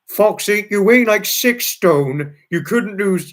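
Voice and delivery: high, loud mock-incredulous friend; Trevor's retort. Retelling how Trevor teased her about her weight, high and loud. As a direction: exclaim it like a teasing mate.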